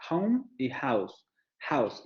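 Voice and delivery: "home" and "house" said slowly and carefully; English diphthongs. Shown as a demonstration. Teacher modelling home and house, slow and careful. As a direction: drill the two words slowly. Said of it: "tenemos estas pronunciaciones".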